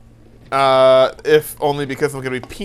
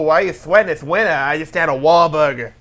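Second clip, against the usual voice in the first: put-on Boston accent. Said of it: "that's my shitty Matt Damon in a movie accent".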